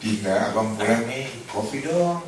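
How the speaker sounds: coaxing, lightly tender husband asking for coffee; sweet greeting. Pretend. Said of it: "merubah cara bertutur". (suami manja minta kopi dengan lembut)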